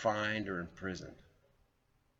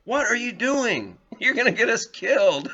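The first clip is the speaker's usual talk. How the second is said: panicked hiss-yell; 13 semitones higher, 10 dB louder than usual. Retold or imitated. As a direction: freak out at your companion in alarm. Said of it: "And I go".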